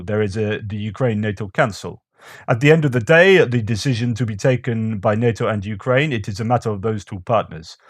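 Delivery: amateur imitation of a Russian accent; bad Russian accent. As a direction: read it out in a badly faked Russian accent. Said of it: "a Russian policymaker said this".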